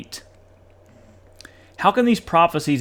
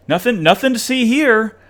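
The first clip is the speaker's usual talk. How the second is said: mock dismissal; 6 semitones higher, 5 dB louder than usual. Mimicking Watchtower waving it away.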